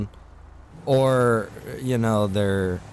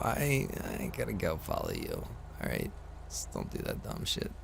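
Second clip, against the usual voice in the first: muttered under the breath, much softer; annoyed mutter; 3 semitones lower, 11 dB quieter than usual. Real, not acted. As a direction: grumble it half to yourself at the player. Muttering at a player in game.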